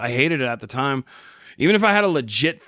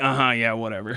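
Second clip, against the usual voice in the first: skeptical clerk; 3 semitones lower than usual. Retold or imitated. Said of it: "She's like".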